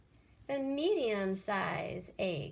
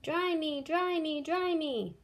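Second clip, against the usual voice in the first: much higher, louder demanding chick; crying baby chick; 7 semitones higher, 5 dB louder than usual. Acted. Soggy baby chick begs Jack loudly to dry it. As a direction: whine it like a wet chick. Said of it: "cried the soggy baby chick".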